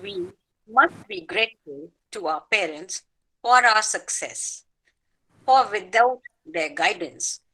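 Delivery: measured, earnest poem reading; a poet honouring her parents in verse; poem recitation. Acted. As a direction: recite with grateful devotion.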